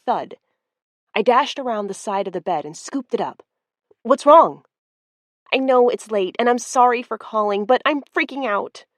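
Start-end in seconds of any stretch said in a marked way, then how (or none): 4.0-4.6 sharp, high alarmed question; startled, loud and high. Acted. Woken by a midnight call. 5.5-8.9 rushed. Acted. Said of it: "The words rushed out of Misty's mouth in a single breath".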